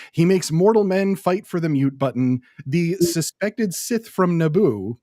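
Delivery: lightly voiced boxing ring announcer. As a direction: build it up like a fight intro. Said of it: "my ring announcer voice going here".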